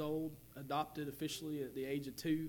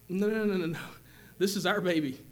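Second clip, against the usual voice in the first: firm refusal; 4 semitones higher, 6 dB louder than usual. Retold or imitated.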